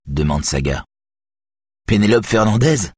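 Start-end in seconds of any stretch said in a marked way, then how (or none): 1.9-2.9 smiling. A narrator's reading. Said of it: "en souriant".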